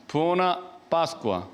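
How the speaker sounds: "Buona Pascua" slowly, word by word; careful Italian greeting. Shown as a demonstration. Priest showing the Italian Easter greeting, careful slow "Buona Pascua". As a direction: sound out "Buona Pascua" slowly, falling at the end. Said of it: "이런 식으로 이제 발음을 하길래".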